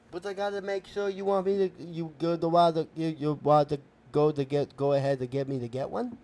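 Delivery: muddled, tongue-tied words; speech impediment. Acted. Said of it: "making fun of my speech impediment".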